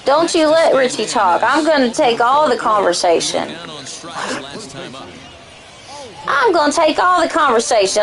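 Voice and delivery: lightly mocking country-accented impression of a woman. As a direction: play her bossy in a country accent. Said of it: "that's her with the country accent".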